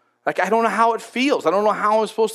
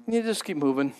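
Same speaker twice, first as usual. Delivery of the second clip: gentle God; 4 semitones lower, 6 dB quieter, faster than usual. Acted. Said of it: "And God just says".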